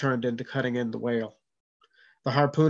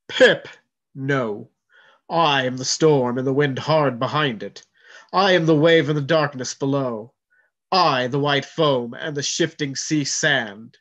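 booming proclamation; 5 dB louder than usual. Acted. Sea spirit proclaims its power to John, booming.

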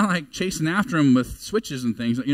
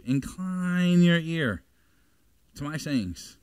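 Incline your ear drawn out slowly; slow deliberate scripture reading; slow stressed incline; much slower than usual. Shown as a demonstration. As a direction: lean into Incline, unhurried. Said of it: "I put incline in italics".

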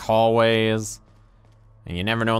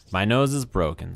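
ordinary delivery

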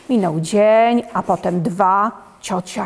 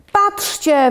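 uncle yelling; 8 semitones higher than usual. Acted. Sick uncle yells that mushrooms grew in his bed, higher mock yell. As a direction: call out like a sick uncle in alarm. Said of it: "wrzeszczy wujek chory".

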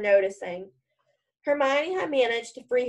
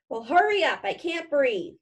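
gasping; 3 semitones higher than usual. Acted. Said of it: "Harry gasped".

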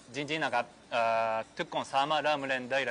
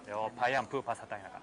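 Japanese-accented Thai. Real, not acted.

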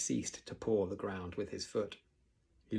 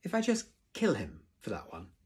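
spitting; 3 semitones higher, 3 dB louder than usual. A narrator's reading. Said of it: "spat Snotlout".

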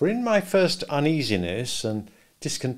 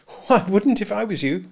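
put-on higher young woman, gently doubtful; Biddy warning Pip off being a gentleman, higher voice; Biddy's voice; 10 semitones higher, 6 dB louder than usual. A narrator's reading. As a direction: voice Biddy a good deal higher, kindly advising.

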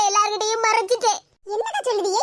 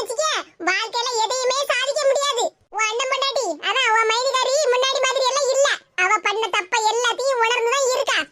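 put-on old mother-in-law. The grandmother scolds her daughter-in-law for making the girl cry.

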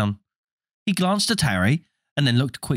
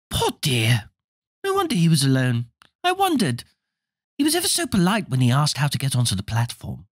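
motherly voice; 4 semitones higher than usual. Acted.

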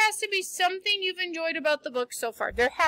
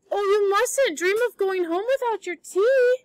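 higher, pleading distressed cry; 5 semitones higher than usual. Acted. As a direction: plead with the sick friend, a little alarmed. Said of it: "cried Anne in distress".

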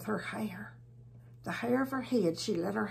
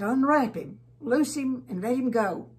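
loud command; 4 semitones higher, 7 dB louder than usual. Acted. Jesus orders the grave clothes off.

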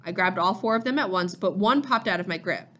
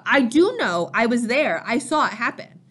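louder, higher earnest protest; emphatic insistence; 3 semitones higher, 4 dB louder than usual. Acted. Sam insisting to father he was there, emphatic. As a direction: cut in and insist on being believed.

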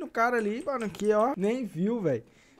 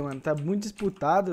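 ordinary talk

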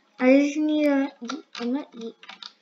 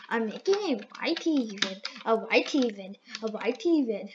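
lower-pitched, matter-of-fact announcement; low playful voice; 4 semitones lower than usual. Pretend. Player announcing a video, in a low voice. Repeats line in contrasting voices.

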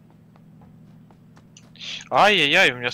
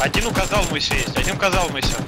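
put-on Russian in a joking Chinese accent, L for R in Казалмыся; 4 semitones higher, 8 dB louder than usual. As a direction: callout with R turned to L, Chinese-accented. Mock Chinese accent in callouts.

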